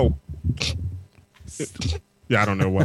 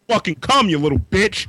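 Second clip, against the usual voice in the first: gloating angry neighbor; 6 semitones higher than usual. Acted. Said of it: "He's like".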